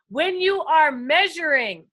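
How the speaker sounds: slow, eager measuring; eager, slow build-up; excited. Real, not acted. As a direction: lean in with excitement. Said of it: "I got a little excited".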